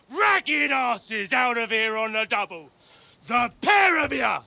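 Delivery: angry guard. Acted. Guard chasing off beggars.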